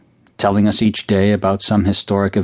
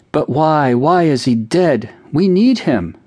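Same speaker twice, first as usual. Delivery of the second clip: put-on sobbing child; 7 semitones higher, slower than usual. A narrator's reading. Cindy crying to her mother, wailing and pleading. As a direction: plead through sobs.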